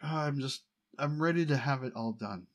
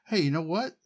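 mock announcement; 7 semitones higher, 7 dB louder than usual. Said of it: "I'm not gonna just say".

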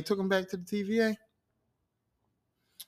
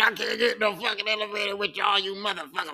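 acted angry rant, pitched up; mad; 3 semitones higher than usual. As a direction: throw a dumb brute's tantrum, voice raised in pitch. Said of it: "Dumbass Hawk got all mad".

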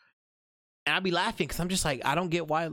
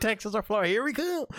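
mock cheer; 6 semitones higher than usual.

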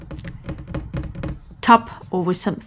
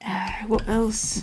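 whisper; 7 dB quieter, slower than usual. Acted. ASMR-style whisper while showing objects.

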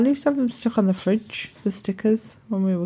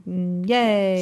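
faked enthusiasm; 3 semitones lower than usual. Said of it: "you know that she's faking it".

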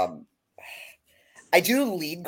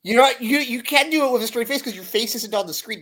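laughing; 9 semitones higher, 4 dB louder than usual. Real, not acted. Teasing co-host mid-laugh.

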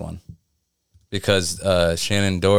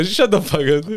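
retold shout; 11 semitones higher, 3 dB louder than usual. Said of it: "I go".

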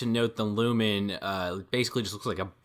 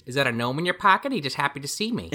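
laughing joke; 5 semitones higher than usual. Retold or imitated. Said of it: "She's like".

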